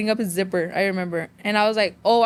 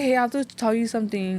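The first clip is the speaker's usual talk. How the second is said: mock sorrowful, sad, somber tone. Retelling how a sister came in to break bad news: imitating someone sounding sad. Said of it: "all sad".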